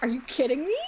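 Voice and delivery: amazed outburst. Retold or imitated. An animation fan stunned by the cutscene budget, amazed high squeal. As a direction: pitch jumping way up in stunned disbelief. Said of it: "I was like".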